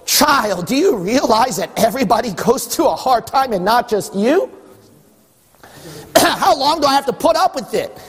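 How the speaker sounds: a patient father running out of patience; exasperated God. Retold or imitated. God scolding a whining child, mildly exasperated. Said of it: "human history and go".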